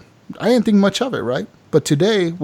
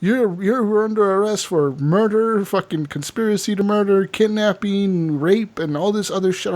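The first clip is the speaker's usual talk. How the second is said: official announcement; 5 semitones higher than usual. Retold or imitated. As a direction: proclaim the crimes like a town cop to a crowd. Cop announces the charges.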